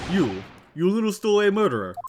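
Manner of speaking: loud furious bark at a stowaway; angry sailor shout. Acted. Sailor yelling at the stowaway, loud and furious. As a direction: roar the insult like a brute sailor.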